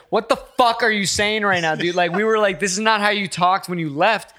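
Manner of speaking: incredulous confrontation. Retold or imitated. Friends confronting him when he came back, incredulous. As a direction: challenge him, baffled and exasperated.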